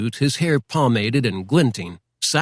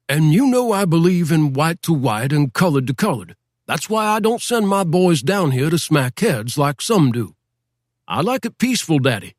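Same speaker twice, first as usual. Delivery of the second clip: higher, folksy lawman voice, patronizing; a small-town sheriff talking down, a touch higher; white sheriff; 4 semitones higher than usual. Acted. Sheriff lecturing Daddy Renfro.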